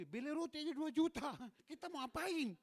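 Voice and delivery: high, loud mock disbelief; retold incredulous exclamation. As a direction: exclaim it in amused astonishment, pitched right up. Incredulous retold remark to wife. (seruan heran bernada tinggi)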